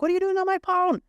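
high-pitched, loud shriek of accusation; imitated furious high screech; outraged partner. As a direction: screech it as you catch them red-handed. Partner bursts in, angry at snooping.

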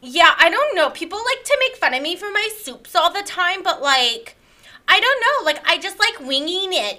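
lightly voiced whiny victim, a hint of a valley girl; self-pitying influencer character. A self-pitying podcast guest complains to the host, lightly whiny. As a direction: mope about the haters, a little put-upon. Plays the character Lyre Lynn.

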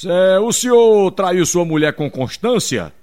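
juiz levemente encenado, pausado e mais forte; juiz interrogando. Acted. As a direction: pergunta solene de juiz, devagar e firme. Juiz interroga o marido na piada. (juiz interrogando o réu, devagar)

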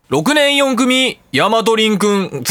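slow, drawn-out ceremonial roll call; formal roll call. Retold or imitated. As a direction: call the name like a Diet chairman. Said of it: "国会議事堂みたいになった". (国会の議長のようにゆっくり名前を呼び上げる)

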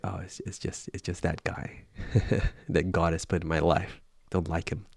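quietly, offhand, brushing it off; dismissive mumble. Pretend. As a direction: mumble it like a petty grumble you don't want heard. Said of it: "but you just say".

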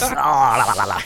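sing-song mock voice, a touch of la-la; playful put-on sing-song; silly put-on voice. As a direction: hum it off in a goofy voice. Repeats line in put-on voice.

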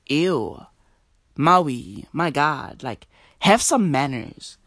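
low, muted voice of disgust; mock disgust. Everybody reacting when a person burps, mock disgust. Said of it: "Everybody fucking gets disgusted".

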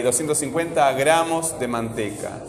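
short break after "gramos"; phrase it with a break following "gramos"; pause after gramos. Shown as a demonstration. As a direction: set "de manteca." apart after "gramos". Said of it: "dónde estoy haciendo una pausa ahí".

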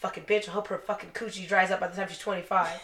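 muttered curse, laughing; under the breath. Retold or imitated. Driving away, cursing her under his breath. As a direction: grumble it half to yourself. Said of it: "cussed her out underneath my breath".

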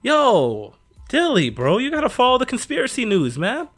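loud, high hyped bro voice; pumped-up dude urging his buddy; frat bro. Acted. Hyped buddy urging conspiracy news.

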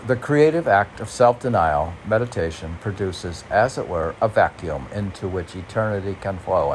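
reading a quote aloud with gravity. Shown as a demonstration. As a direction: read it like a solemn inscription.

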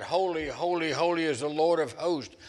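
lifted, loud and awed, a touch strained; crying out. Acted. Isaiah before the Lord cries out in awe. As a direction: cry it out as if overwhelmed by glory. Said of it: "and he cries out".

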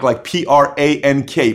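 each letter of P R A N K said separately and slowly; spelled out letter by letter. Shown as a demonstration. Spelling the word out so there is no mix-up. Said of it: "I said prank".

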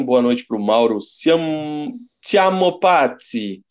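put-on slow, drawn-out, high Italian accent. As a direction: stretch the name like an Italian. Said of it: "Eu tô falando com um sotaque italiano".

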